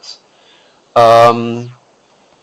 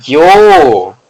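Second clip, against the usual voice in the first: surprised yo; 3 semitones higher, 6 dB louder than usual. Real, not acted. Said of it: "Wait, did I add an extra each".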